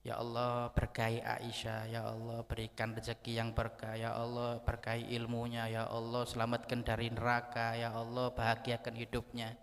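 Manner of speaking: even, rhythmic supplication; a steady litany of blessings; murmured prayer for his wife. Acted. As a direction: recite a calm prayer, one blessing after another. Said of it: "didoakan oleh Rasulullah".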